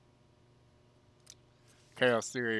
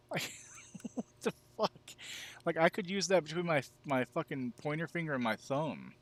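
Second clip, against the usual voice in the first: high and loud disbelief; can't believe how small it is; incredulous; 6 semitones higher, 4 dB louder than usual. Real, not acted. Still marvelling at the knife.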